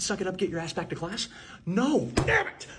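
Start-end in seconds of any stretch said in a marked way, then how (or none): 1.6-2.7 high, slow curse then a bright cover-up; snap, then cover it with fake cheer; caught covering up. Nurse slipping up in front of the student, then a high cover-up.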